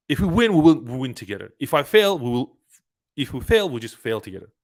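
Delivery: rising to a loud push on win and fail; a retold rallying cry; rallying pep talk. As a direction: fire him up to jump in together. Pep talk convincing his friend.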